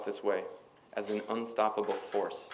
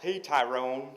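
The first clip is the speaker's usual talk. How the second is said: higher, louder mock Southern accent; approximate Southern accent; 4 semitones higher, 5 dB louder, slower than usual. A narrator's reading. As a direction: put on a rough imitation Southern accent. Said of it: "approximation of a Southern accent".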